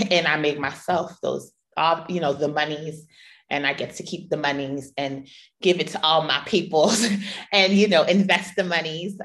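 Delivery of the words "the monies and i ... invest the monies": playful "the monies" and "my peoples", said with a grin; "the monies" dropped in lightly, tongue in cheek; cute slang "the monies". Pretend. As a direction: lean into "monies" like a cute joke. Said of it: "I'm being cute".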